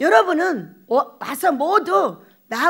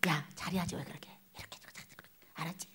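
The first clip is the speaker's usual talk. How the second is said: whispered mock telling-off; much softer, whispered gentle reprimand; hushed scolding; 10 semitones lower, 21 dB quieter, faster than usual. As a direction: scold under your breath so no one hears. Pastor scolding trainee in secret.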